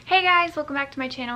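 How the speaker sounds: bouncy YouTuber hello; bright channel greeting. Acted. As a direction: pop into the intro greeting.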